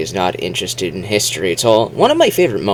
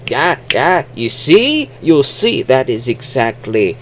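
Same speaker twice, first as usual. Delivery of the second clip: higher, eager mock-Scottish voice; Scottish actor imitation; 6 semitones higher than usual. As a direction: imitate an excited Scotsman making his point. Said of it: "Gerard Butler goes like".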